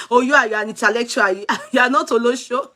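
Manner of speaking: quick, mock-patronizing retelling with a laugh. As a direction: imitate someone talking down to you, amused. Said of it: "some kind of patronizing me".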